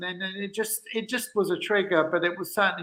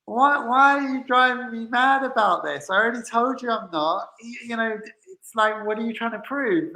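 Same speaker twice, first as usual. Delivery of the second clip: higher-pitched retold exasperation; exasperated retort; 5 semitones higher than usual. Answering a date who keeps pushing, exasperated. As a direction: protest as if being driven mad.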